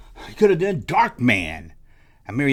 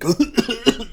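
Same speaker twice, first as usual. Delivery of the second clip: mock cough; 7 semitones higher than usual. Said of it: "he coughs while you play with him".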